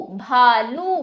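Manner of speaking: slow "भालू" with both vowels held; drawn-out vowels. Shown as a demonstration. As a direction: stretch out "भालू" for learners. मात्रा वाला शब्द खींचकर सिखाना. ("भालू" को धीरे, खींचकर)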